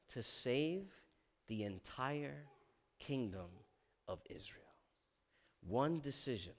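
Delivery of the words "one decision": movie trailer voice. Acted. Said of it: "I don't wanna sound like a trailer".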